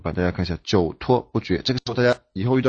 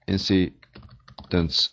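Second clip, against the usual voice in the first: incidents drawn out slowly, word by word; slow model reading; much slower than usual. Shown as a demonstration. Teacher slowly models incidents for class. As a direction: read incidents slowly for students to copy. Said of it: "比如说".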